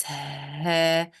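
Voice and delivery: ها drawn out slowly with an airy, open h; slow demonstration of ها with open throat; open-cord ha. Shown as a demonstration. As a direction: stretch the h in ها, vocal cords open. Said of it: "the vocal cords are opened".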